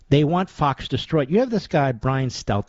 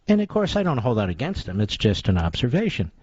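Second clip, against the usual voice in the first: ordinary delivery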